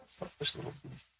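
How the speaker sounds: whispered under the breath; a disgusted whisper to herself; whispered aside. Real, not acted. Murmured aside about tomcat.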